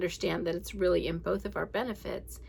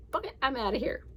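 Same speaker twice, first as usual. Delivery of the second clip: storming off; 6 semitones higher, faster than usual. Retold or imitated. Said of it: "I'm like".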